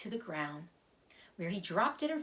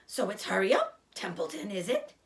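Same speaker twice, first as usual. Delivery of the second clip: mocking imitation; 3 dB louder than usual. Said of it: "imitating Wilbur's voice".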